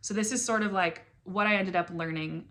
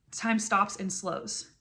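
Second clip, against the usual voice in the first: drawn out, much slower repeat; slowed echo; much slower than usual. Acted. Repeating her poem line to the new mom, slowed right down. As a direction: stretch each word as time slows.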